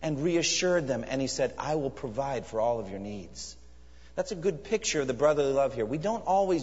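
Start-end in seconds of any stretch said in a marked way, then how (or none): 1.6-3.6 kindly. Acted. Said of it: "he spoke kindly to them".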